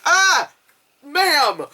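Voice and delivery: high exasperated plea; pleading complaint. Retold or imitated. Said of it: "I'd be like".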